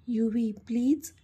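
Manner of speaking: slow, gentle coaxing; gentle, soft. Acted. He softly calms his crying girlfriend, gentle and slow. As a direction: say her name slowly and softly to calm her. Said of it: "तो आता हळूवार बोलला".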